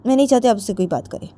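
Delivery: put-on high, insistent young woman; Jiya's voice. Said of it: "तो जिया बोलती है".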